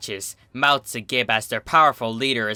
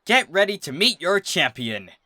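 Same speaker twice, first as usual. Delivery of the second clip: raised, ringing call to the herd; proud announcement; 5 semitones higher than usual. A narrator's reading. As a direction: announce the champion to the crowd. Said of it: "Texas announces".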